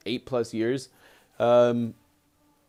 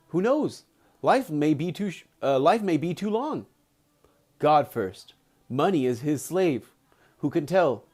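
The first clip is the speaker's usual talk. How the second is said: deliberate audiobook-style reading with acted dialogue; story narration; 3 semitones higher than usual. A narrator's reading. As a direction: read the book aloud with measured phrasing. Reads the book aloud.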